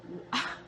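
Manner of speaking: heavy wordless sigh; exasperated sigh. Real, not acted. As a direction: let out a sigh of disbelief. Exasperated by whiter-skin requests.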